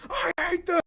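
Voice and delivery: high laughing squeal; mock outburst breaking into laughs; laughing quote. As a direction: shriek the line through laughter. Quoting the Clones line, laughing.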